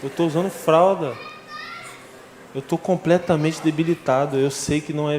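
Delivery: convince your brother you know the truth; agitated insistence. Retold or imitated.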